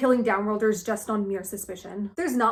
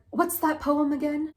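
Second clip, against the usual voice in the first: dramatic Will; 4 semitones higher than usual. Acted. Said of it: "Will keeps trying to be dramatic".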